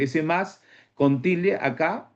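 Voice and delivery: "ese más con tilde acá" said slowly, rising on "tilde"; slow stressed "tilde". Shown as a demonstration. Teacher pointing out the word to the class, slow and stressed. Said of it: "Entonces, profe".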